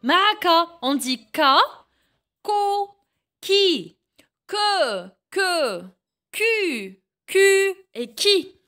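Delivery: chaque syllabe en « j » détachée avec soin; syllabes articulées. Shown as a demonstration. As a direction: montre la syllabe, puis une pause. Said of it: "إذا لاحظوا". (syllabes en « j » dictées au professeur)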